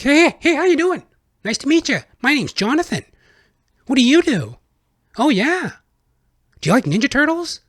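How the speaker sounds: put-on overexcited chatterbox kid. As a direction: gush at every stranger like an eager little boy. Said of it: "'cause I was just so happy to talk to people".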